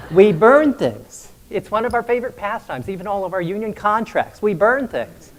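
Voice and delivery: loud gleeful dragon brag; booming dragon boast. Retold or imitated. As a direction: belt it out like a proud dragon.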